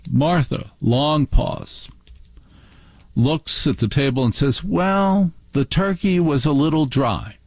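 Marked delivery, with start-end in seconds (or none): 4.6-7.4 higher-pitched, fussy dinner critic; imitated critical aunt. Aunt Martha answers after a long pause, imitated criticism. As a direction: pitch it up like a fault-finding aunt.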